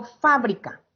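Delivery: FA of fábrica stressed; fábrica with weight on the first syllable. Shown as a demonstration. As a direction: lean on FA in fábrica. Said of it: "dónde cargo la voz".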